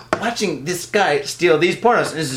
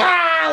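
startled yelp; 10 semitones higher than usual. Retold or imitated. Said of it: "like that and shit".

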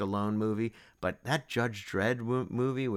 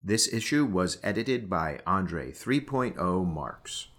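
credits read. Acted. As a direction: read the credits like a closing announcement.

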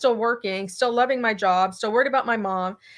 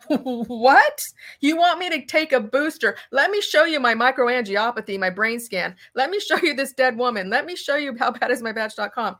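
indignant retort; 2 semitones higher than usual. Retold or imitated. Telling the hospital bosses she won't take a booster, indignant. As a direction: throw it back at the boss in disbelief.

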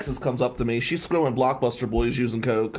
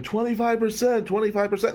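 put-on high, excited drunk yell; 10 semitones higher than usual. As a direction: shout it like a drunk on the dance floor. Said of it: "And he's screaming".

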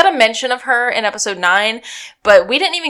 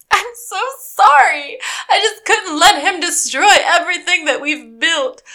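husband hears a hammed-up sorry; mock wife apology; 7 semitones higher than usual. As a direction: squeak out a fake-sorry plea to her husband. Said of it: "she just turns to her husband and goes".

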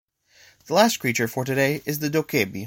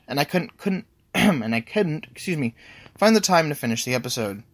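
with a mouth ulcer. Real, not acted. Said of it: "I have a sore in my mouth".

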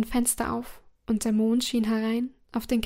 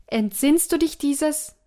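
slow, higher, louder eerie question; eerie ghost voice; 4 semitones higher, 4 dB louder than usual. Acted. Ghostly heads question the dying emperor, eerie and slow. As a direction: let the ghostly heads loom over him.

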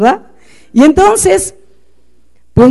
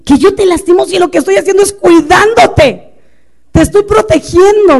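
protesta aguda, marcando las palabras; indignación; 6 semitones higher, 3 dB louder than usual. Retold or imitated. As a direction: reclama como madre ofendida, tono alto. Réplica interior indignada al hijo. (indignación actuada y aguda)

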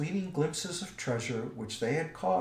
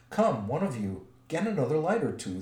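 ordering; 3 semitones higher, 4 dB louder than usual. Acted. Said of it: "Thorin ordered".

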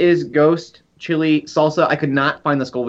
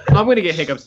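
laughing; 3 semitones higher than usual. Real, not acted. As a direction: laugh through the words. Laughing at friend's hiccups.

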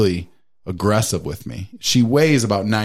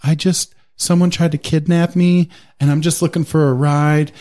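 mock sob story; 6 semitones higher, 3 dB louder than usual. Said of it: "is like".

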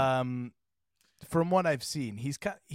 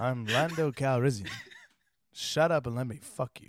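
laughing through a mock movie-poster line; Lando quote through laughter; 3 dB louder than usual. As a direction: deliver the pickup line while cracking up. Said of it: "And Lando was like".

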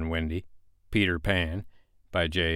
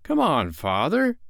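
put-on urging boy; 8 semitones higher, 3 dB louder than usual. A narrator's reading. Boy urging his reluctant father.

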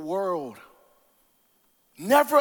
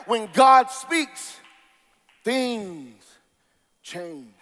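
shout to hush; 2 semitones lower, much slower than usual. Real, not acted. Preacher shouting the refrain, then letting it fade.

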